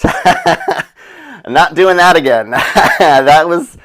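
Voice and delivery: slow, laughing through the words; can't stop giggling; real laughter while talking. Real, not acted. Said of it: "laughs heard on lines".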